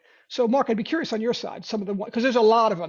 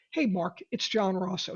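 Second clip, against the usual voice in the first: calm falling tone; 4 dB quieter than usual. Shown as a demonstration. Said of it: "It's the same tonality".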